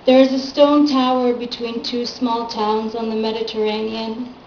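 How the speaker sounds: measured recital with falling line ends; poem reading. Acted. Poet reads own poem to an audience, measured recital.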